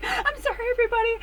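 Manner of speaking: lightly voiced sheepish sorry. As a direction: apologize sweetly, still giddy. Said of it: "She's like".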